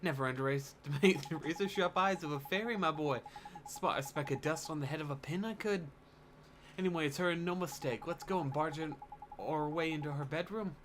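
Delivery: a hint of a cocky fairy sidekick; lightly voiced boastful fairy. Fairy boasting to the boy about sharp eyes, lightly cocky.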